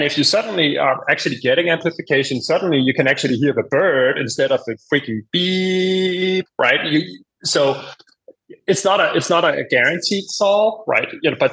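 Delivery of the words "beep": drawn-out steady beep; imitated tinnitus beep. Explaining masking to the host, imitated long beep. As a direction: stretch it into one held tone.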